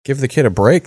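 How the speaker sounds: retold outcry in someone's defence; mock appalled protest. Retold bystanders defending him.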